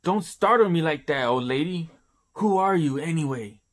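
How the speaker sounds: put-on jumpy protest at the old lady; startled. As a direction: Orochi flustered by the old woman sneaking up on him. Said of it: "Oroshi's scared shitless".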